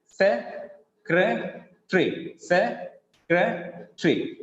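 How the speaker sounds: slow "Secretary", se... cre... tree, with gaps; split into three syllables. Shown as a demonstration. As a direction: break "Secretary" into three separate slow beats. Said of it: "will be decreased to three".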